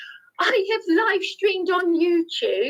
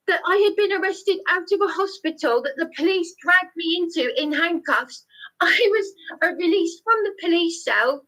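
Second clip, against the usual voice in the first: higher and strained, breaking into tearful edges; raised voice, near tears; 4 semitones higher than usual. Real, not acted. Recounting his release from the police cell to the councillor, raised and tearful. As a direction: push on through rising distress, almost crying. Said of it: "sorry to raise my voice".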